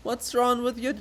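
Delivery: loud laughing jeer; teasing with a laugh. Acted. Chorus teasing loudly.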